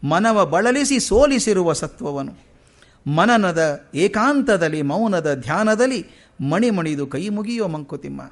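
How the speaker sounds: slow, measured reading of verse; poem recitation. Acted. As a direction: recite each line slowly, weighing every word. Continues the verse.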